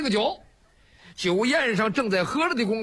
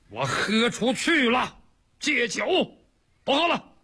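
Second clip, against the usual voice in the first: grudging vow; 3 semitones higher than usual. Acted. Li Kui grudgingly swears off wine.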